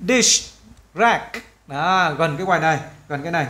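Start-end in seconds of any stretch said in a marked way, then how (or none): 0.1-1.4 DISH, then RACK, each said separately; careful word demo. Shown as a demonstration. Teacher asks learners to listen closely, careful word-by-word demo. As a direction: say "Dish rack" as two distinct, higher-pitched words. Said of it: "bạn nghe kỹ nha".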